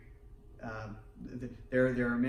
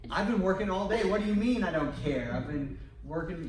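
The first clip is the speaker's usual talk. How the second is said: higher, louder protest, laughing at the end; mock defensive husband; 4 semitones higher, 4 dB louder, faster than usual. Tired husband answering wife's accusation, mock defensive protest. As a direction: push back, half-joking. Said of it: "And they think".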